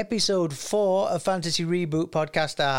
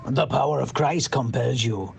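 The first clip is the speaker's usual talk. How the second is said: put-on mixed European accent; 2 semitones lower than usual. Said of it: "he's got a really mixed accent".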